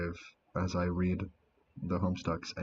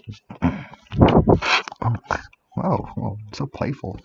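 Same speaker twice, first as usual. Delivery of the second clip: goodnight kiss; 3 semitones higher, 10 dB louder, much slower than usual. Acted. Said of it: "give you guys a good night kiss".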